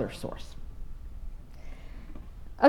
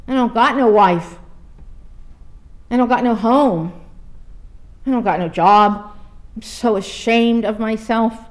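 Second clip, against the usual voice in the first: sobbing confession; 3 dB louder than usual. Retold or imitated. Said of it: "that big man began to sob".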